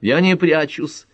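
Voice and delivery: high, drawn-out indignant retort; angry retort. A narrator's reading. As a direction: throw it back crossly, stretching the words. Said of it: "сердито откликнулась Пэт".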